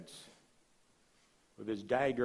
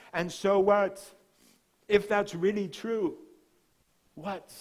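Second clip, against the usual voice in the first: louder, higher mock protest; skeptical challenge; 7 semitones higher, 7 dB louder than usual. Pastor voicing a doubting churchgoer, loud skeptical challenge. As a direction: throw back a doubter's challenge.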